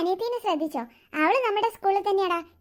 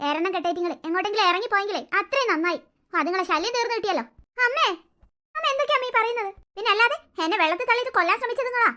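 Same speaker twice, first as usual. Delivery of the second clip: spiteful grandmother; 2 semitones lower than usual. Acted. Grandmother gloating to her son that the children are gone, spiteful. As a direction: sneer with cold satisfaction.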